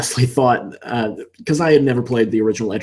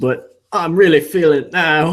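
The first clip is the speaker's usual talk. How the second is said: botched fake Australian accent, high, slow; 5 semitones higher than usual. A gamer names a favorite gaming meme, quoting it in a bad Australian accent. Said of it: "I can't do Australian accent, so I probably botched that".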